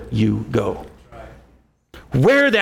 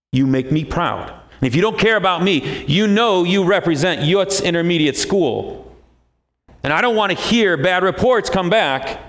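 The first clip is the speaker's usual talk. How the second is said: stern teacher voice. Pretend. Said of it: "I'm gonna give you my teacher voice now".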